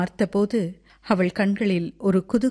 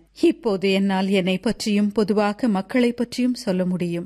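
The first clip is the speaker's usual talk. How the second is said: ordinary delivery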